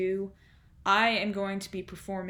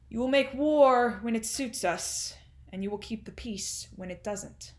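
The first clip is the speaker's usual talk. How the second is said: Undershaft, domineering tycoon; 2 semitones higher than usual. Acted. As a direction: lay down the law to your son. Performs Undershaft monologue, domineering.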